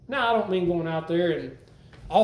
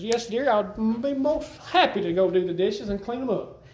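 cheerful willing reply. Retold or imitated. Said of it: "This is the opposite of grumbling".

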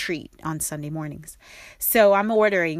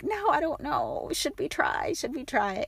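hesitant dithering; 9 semitones higher, 3 dB quieter than usual. Retold or imitated. Couple unsure about new cafes.

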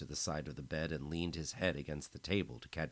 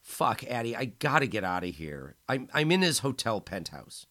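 crying; 6 semitones higher, 8 dB louder than usual. A narrator's reading. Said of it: "he started crying".

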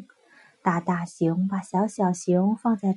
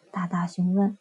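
plain reading voice

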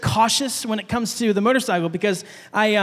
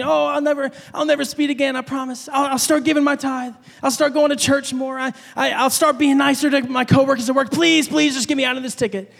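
higher-pitched, mock-desperate bargaining; pleading promises; 3 semitones higher than usual. Driver bargaining with God over a ticket, mock pleading. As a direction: rattle off vows like a desperate bargainer. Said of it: "making all these promises".

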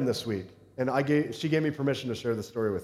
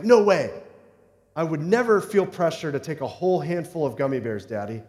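daughter's voice. Retold or imitated. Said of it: "she's like".

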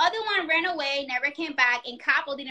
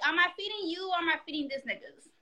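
muttered under breath, fast; whispered complaint; 3 semitones higher, 6 dB quieter, faster than usual. Retold or imitated. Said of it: "I'm like".

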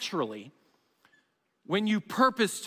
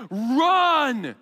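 drawn-out, louder call of command; imitated yell, held long; mild mock yell; 3 semitones higher, 5 dB louder than usual. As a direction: call it out like a tempting voice. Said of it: "it's gonna be yelling".

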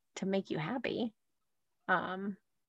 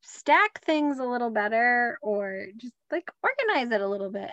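light cheery parent; 3 semitones higher than usual. Retold or imitated. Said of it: "It's like".

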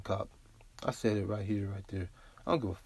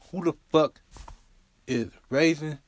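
much higher and much louder, furious yell; angry shout; 6 semitones higher, 6 dB louder than usual. Real, not acted. Podcast host venting about police, angry shout. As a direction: blast the question out in real rage.

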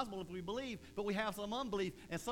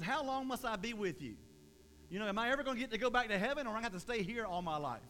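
exasperated, rushed Jesus voice, a bit higher; mock exasperation; 3 semitones higher, faster than usual. Pastor voicing Jesus tired of faithless disciples, exasperated. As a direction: sigh it out like a weary teacher.

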